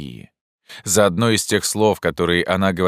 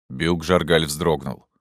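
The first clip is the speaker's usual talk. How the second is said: ordinary delivery, nothing marked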